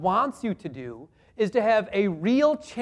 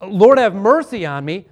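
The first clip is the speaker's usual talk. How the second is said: louder, earnest plea for mercy; penitent confession; 6 dB louder than usual. Retold or imitated. A preacher voicing a repentant sinner confessing loudly. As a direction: cry out your guilt to the Lord. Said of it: "that guy who comes in and says".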